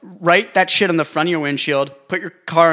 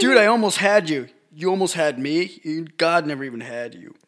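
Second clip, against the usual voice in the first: higher, lightly voiced God; 4 semitones higher than usual. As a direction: play God teasing. Mock God voice.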